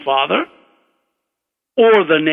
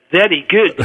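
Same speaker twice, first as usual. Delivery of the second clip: lightly voiced pleased examiner, slightly raised; beaming Scottish professor; 2 semitones higher than usual. Beaming examiner praises the student's answer, mildly delighted. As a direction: approve with a touch of Scottish delight. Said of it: "face beaming".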